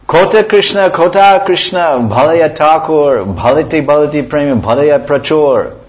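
loud, high calling out of the verse; loud high lamenting recitation; crying out. Acted. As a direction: cry the verse out in longing.

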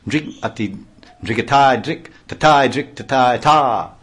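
sharp rhythmic dance syllables called out loud; punchy bursts of drum syllables; excited exclaiming. Acted. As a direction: snap out the beats like a dancer's cry. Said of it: "abruptly exclaiming".

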